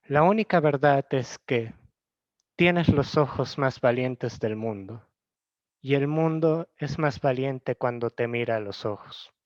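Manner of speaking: measured poem recital with pauses between lines; poem reading. Acted. Vlogger reading Elvira Sastre's poem to viewers, measured recital. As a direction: read the verse evenly, letting each line settle.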